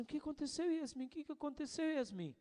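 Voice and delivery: a concerned auntie voice, hushed and high; soft worried coaxing; worried soft question. Retold or imitated. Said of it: "ficou preocupada e disse assim".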